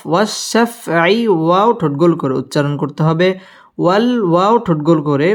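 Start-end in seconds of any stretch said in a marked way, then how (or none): 0.1-1.3 ওয়াশাফআই with a held, doubled sh; lengthened sh sound in ওয়াশাফআই; doubled shin. Shown as a demonstration. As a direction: lean on the sh in ওয়াশাফআই. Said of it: "শিন তাজদিদ ওয়ালা হরফ".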